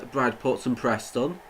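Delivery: ordinary talk, nothing marked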